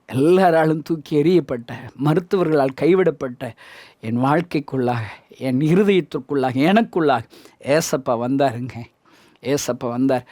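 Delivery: low, hushed preacher's testimony; subdued, low-pitched sermon delivery; solemn testimony. Real, not acted. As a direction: let the voice sink, phrase by phrase, in reverent confession.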